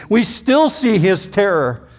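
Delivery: lightly voiced haunted brothers, rising; haunted confession. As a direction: voice the brothers' lingering terror. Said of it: "they're saying".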